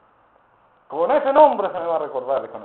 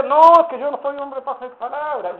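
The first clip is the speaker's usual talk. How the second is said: excusa; 8 semitones higher, 7 dB louder than usual. Retold or imitated. Hermano se excusa.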